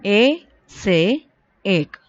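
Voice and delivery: put-on "A say ek" stretched slow for children to repeat; deliberate teacher demo of "ek"; slow model line. Shown as a demonstration. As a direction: slowly model "A say ek", each word apart.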